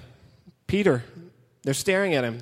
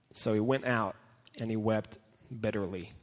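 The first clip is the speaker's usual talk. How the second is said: much softer and lower, grieving; sorrowful narration; 7 semitones lower, 10 dB quieter than usual. A narrator's reading. Preacher telling how Peter wept, soft and sorrowful. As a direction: let the voice sink with grief.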